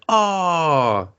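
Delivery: slow, mock-indignant complaint; imitating complainers. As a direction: draw it out like a whining accusation. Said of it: "And they're like".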